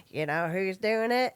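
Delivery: lilting repeated catchphrase; mom's playful teasing refrain; singsong stimming refrain. Retold or imitated. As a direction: sing it at the kids again and again. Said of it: "to my kids go".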